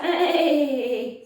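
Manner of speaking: loud startled "hey" calls; mock alarm, shouting hey. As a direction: call out to stop someone. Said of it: "If you are those people who do that".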